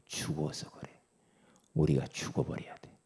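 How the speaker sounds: soft whispered reply; whispered answer. Acted. Preacher answering his own question, whispered. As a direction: say it under your breath. Hushed punchline.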